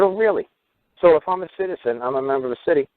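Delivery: high, mock-innocent questioning; feigned curiosity. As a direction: reason it out in a lifted, doubting voice. Retold challenge with feigned curiosity.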